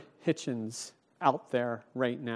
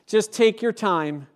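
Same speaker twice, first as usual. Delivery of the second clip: higher, louder, breezy mock offer; a hammed-up laid-back angel, louder and higher; mock casual angel; 6 semitones higher, 6 dB louder than usual. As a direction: play the angel as lazily easygoing. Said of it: "the angel doesn't say".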